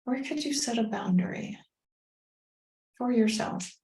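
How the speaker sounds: measured meditation guide with long pauses; guided meditation. Acted. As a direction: gently lead listeners inward, phrase by phrase.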